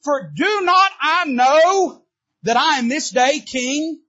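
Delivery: high, loud, slow triumph; triumphant declaration. Acted. David declares himself king again, loud and triumphant. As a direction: proclaim your kingship. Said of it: "He says".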